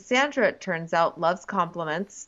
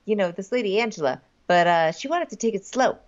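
doing Joe; 2 semitones higher, faster than usual. Retold or imitated. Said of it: "now I'm kinda doing Joe".

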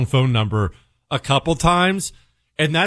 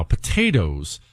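deep deadpan; 12 semitones lower, slower than usual. Shown as a demonstration. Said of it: "seen this headline".

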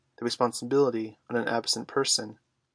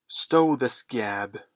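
loud, drawn-out pirate captain's roar; 5 dB louder, much slower than usual. A narrator's reading. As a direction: roar it slowly as a commanding pirate. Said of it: "roared Hook".

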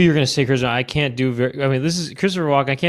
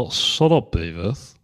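lightly put-on English cartoon scolding; mock English telling-off; English-accented Butt-Head; 6 semitones lower, slower than usual. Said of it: "to do an English accent".

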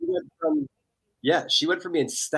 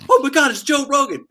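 high, loud, starstruck squeal; starstruck gush; 12 semitones higher, 8 dB louder than usual. Retold or imitated. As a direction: gush like a fan meeting her idol. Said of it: "she's like".

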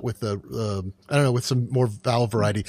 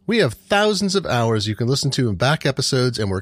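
host's prepared sign-off delivery; measured announcer-style podcast credits; podcast outro read. Acted. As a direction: read the closing credits to listeners.

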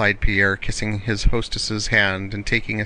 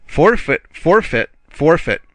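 high, loud teasing call of forfeit; playful cry; 6 semitones higher, 5 dB louder than usual. Acted. Officer calls a forfeit on Julie, loud and high. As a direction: pounce on the French word like a game.

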